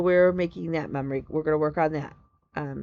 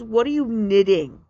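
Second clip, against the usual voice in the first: higher, louder imitation of a receptionist; receptionist's question; 4 semitones higher, 7 dB louder than usual. Receptionist asks the stitcher at the doctor's, high imitation. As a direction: put on a receptionist loudly asking.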